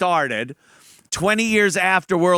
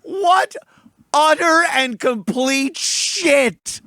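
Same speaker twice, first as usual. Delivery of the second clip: loud, slowed disbelief; outraged; 10 semitones higher, 5 dB louder, much slower than usual. Real, not acted. Reacting to the trailer with loud drawn-out outrage. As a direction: drag out the contempt.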